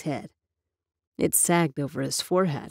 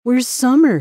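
high, loud call for Summer; a shouted question; shouting; 7 semitones higher, 7 dB louder than usual. A narrator's reading. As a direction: call out sharply, demanding. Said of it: "he shouted".

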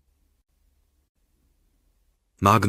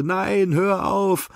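desperate plea; 12 semitones higher, much slower than usual. Acted. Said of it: "wie sie heulte".

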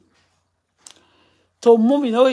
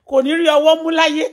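retold curse; 7 semitones higher, 6 dB louder than usual. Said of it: "I said".

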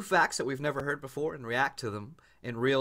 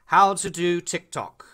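put-on loud, high, slow European accent; drawn-out European tutorial voice, pitched up; European how-to guy; 8 semitones higher, 7 dB louder, slower than usual. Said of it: "he's always European".

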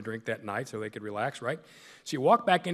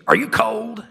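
high, loud mock coach question; concerned coach; 8 semitones higher, 11 dB louder, slower than usual. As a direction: bark it out like a worried head coach. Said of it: "looks at me and goes".

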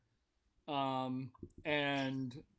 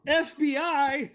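high, drawn-out disbelief, louder; acted alarm; 9 semitones higher, 7 dB louder, slower than usual. Game master voices Polya hearing of the FBI, alarmed. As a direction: play a character aghast at the name.

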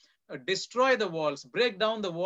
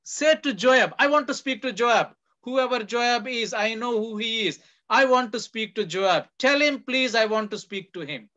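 higher and louder, insistent request; calling out to Joab; 4 semitones higher, 5 dB louder than usual. Retold or imitated. The wise woman demanding to speak with Joab, calling out. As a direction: call across the wall to be heard. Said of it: "she cries out from the city".

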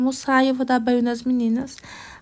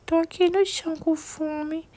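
higher, lightly voiced little girl; 5 semitones higher, 3 dB quieter than usual. Doll daughter answers her mother in a higher little voice. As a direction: lightly play the small daughter.

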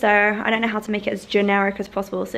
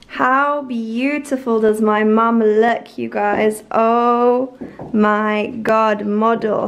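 slow, louder gushing over how she looks; admiring gush; 5 dB louder, much slower than usual. Real, not acted. To her mum, slow loud admiring gush.

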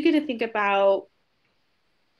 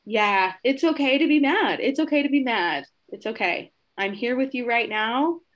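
reassuring validation; 4 semitones higher, 4 dB louder than usual. Shown as a demonstration. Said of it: "acknowledge and even embrace".

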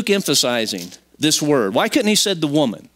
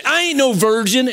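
high, mock-offended schoolkid retort; indignant denial; 11 semitones higher, 3 dB louder than usual. Seventh grader answering a playground insult, mock-indignant. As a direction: protest it hotly, pitched way up. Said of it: "they'd get mad at somebody and go".

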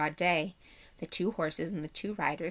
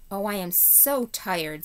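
slow, higher-pitched tired sigh of words; weary complaint; 3 semitones higher, 3 dB louder, slower than usual. Acted. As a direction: drag it out, worn out.

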